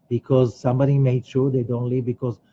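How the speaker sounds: ordinary delivery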